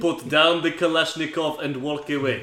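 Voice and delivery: lightly voiced Russian accent. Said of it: "That's better".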